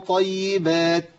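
طيبات stretched and sung out too long; طيبات chanted far too slowly, the wrong way; drawn-out wrong ghunna. Shown as a demonstration. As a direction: overdo the nasal hold on طيبات. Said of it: "ما أقولش من طيبات".

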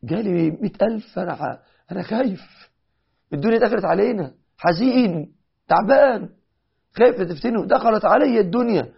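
rising anguish over the money; distressed cry. Retold or imitated. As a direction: Talha crying out that the world has come in. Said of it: "قال".

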